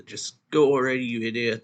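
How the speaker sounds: exasperated urging. Acted. Boy urging his friend to escape without him, exasperated urging. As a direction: urge a friend away, raising the voice. Retold plea to flee, insulting.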